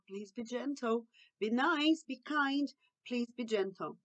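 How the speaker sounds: put-on soft, kind request to a child; gentle coaxing. Shown as a demonstration. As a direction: softly guide a child. Models gentle replacement phrase. (pedido suave e paciente)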